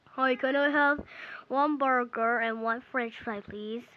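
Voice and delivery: put-on voice for a man ordering; second customer. New guy ordering a burger from the seller, lightly put-on voice. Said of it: "now he came in".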